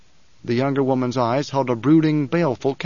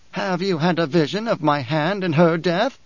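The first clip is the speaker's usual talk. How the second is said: lightly voiced haughty old priestess; a hint of a proud crone sneering at Paul; old Reverend Mother, disdainful; 4 semitones higher than usual.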